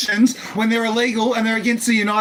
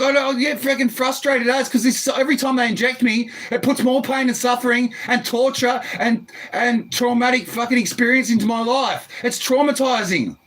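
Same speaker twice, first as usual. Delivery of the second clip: normal talking voice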